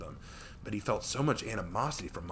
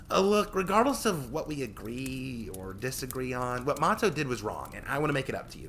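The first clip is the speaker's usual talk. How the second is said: put-on high, eager teen girl voice; bright young winged girl; young harpy girl voice; 5 semitones higher than usual.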